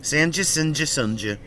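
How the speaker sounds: Sanja three ways: "san-juh, sin-juh, sun-juh"; trying pronunciations. Shown as a demonstration. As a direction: shift the first vowel on each Sanja, a, i, then u. Trying out versions of a name.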